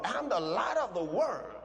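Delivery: firm, assured statement; bold declaration. Shown as a demonstration. Preacher showing believers how to say it, boldly assured. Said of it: "Be bold".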